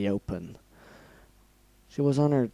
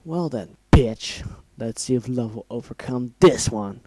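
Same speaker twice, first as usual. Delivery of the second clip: menacing threat; 3 dB louder than usual. Acted. Villain threatening before killing.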